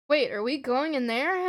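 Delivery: mildly nervous question; understated unease, lifting into the question. Acted. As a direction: ask with a touch of nerves, rising at the end. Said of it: "Ellie asks nervously".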